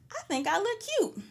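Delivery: proudly admiring her own look; pleased with herself, said up high. Retold or imitated. Self-quote pleased with her makeup.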